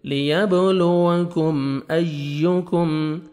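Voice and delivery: slow, drawn-out tajweed recitation; a teacher modelling careful tilawat; Quran recitation. Shown as a demonstration. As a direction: recite each letter slowly and precisely. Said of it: "یا کا sound آئے گا".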